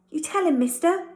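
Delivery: high and loud, pushing him to speak; excited. Acted. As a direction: urge him on, all eager. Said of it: "Tucky said excitedly".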